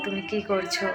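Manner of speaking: the same question in clean standard Bengali; proper textbook Bengali, neatly said. Shown as a demonstration. Contrasting with the Odia line, standard Bengali accent. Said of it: "শুদ্ধ বাংলায় ভাষায় বলো".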